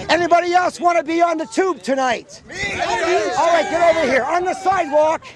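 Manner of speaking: shouting to the crowd; calling out. Real, not acted.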